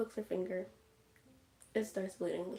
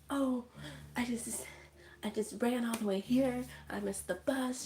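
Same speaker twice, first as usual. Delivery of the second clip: higher, lightly puffed acting; mock out of breath; 3 semitones higher than usual. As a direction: act as if you ran all the way. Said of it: "She's acting out of breath".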